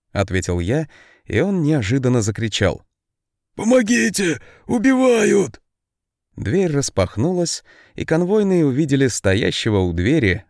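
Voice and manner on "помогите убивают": high, loud panicked yell; yelling for help. A narrator's reading. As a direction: scream for help at the top of his lungs. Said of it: "орущего во всё горло". (истошный крик о помощи)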